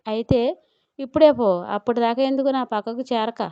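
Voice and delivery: hurt, huffy outburst; indignant. Acted. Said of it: "ఉక్రోషంగా అంది చైత్ర". (ఉక్రోషంగా, ఉడుకుమోత్తనంగా)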